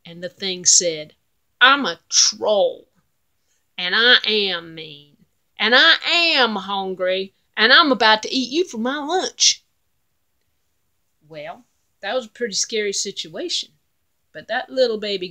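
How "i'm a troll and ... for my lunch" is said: menacing troll. Acted. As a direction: growl it out like a hungry troll. Troll threatens goat.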